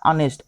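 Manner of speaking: ऑनेस्ट said as "aa-nest", starting on the vowel; ऑनेस्ट with a clean vowel start and no h; silent h demo. Shown as a demonstration. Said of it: "इसका उच्चारण क्या हो रहा है". (ऑनेस्ट स्वर से शुरू, एच नहीं)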